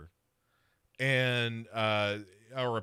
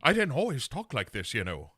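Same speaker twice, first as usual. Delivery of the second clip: put-on Irish accent; 2 semitones higher, 3 dB louder than usual. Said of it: "the curse of the Irish accent".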